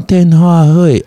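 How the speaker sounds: 电话会 with Taiwan Mandarin, 话 as 会; imitating a mom's Taiwan Mandarin 电话会; 台湾国语. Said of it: "她平常的发音是电话会". (台湾国语口音说“电话会”)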